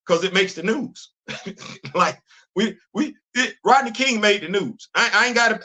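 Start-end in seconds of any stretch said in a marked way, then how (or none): 1.3-1.9 brief chuckle. Real, not acted. Chuckles while giving an example.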